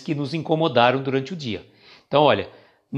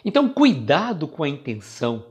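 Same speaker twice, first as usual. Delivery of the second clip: ordinary delivery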